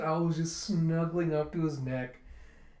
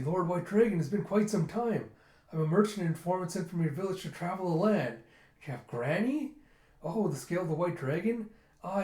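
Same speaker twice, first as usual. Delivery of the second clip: chipper merchant; 4 semitones higher than usual. Retold or imitated. Voices a merchant informant.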